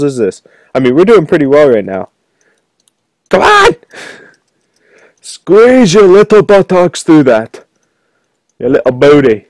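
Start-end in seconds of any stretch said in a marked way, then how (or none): 3.3-3.8 very high, pleading squeal; strained squeal. Real, not acted. Gamer stuck among balls, strained high squeal. 5.2-9.5 high, slow drawn-out urging; straining urging. Real, not acted. Gamer urging character through balls, high straining voice.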